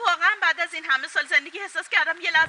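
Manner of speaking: hurt, crying accusation; tearful reproach. Acted. Wife calling her husband heartless, tearful. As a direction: reproach your partner through tears. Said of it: "باشه، گریه نکن".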